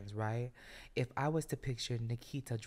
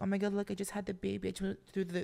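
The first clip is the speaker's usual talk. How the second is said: higher mock new-mother voice; imitating friend's sister; 4 semitones higher than usual. Host mimics sister announcing the baby after long labor, higher imitated voice. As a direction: lightly voice a new mother on the phone, pitched up. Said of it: "And then she's like".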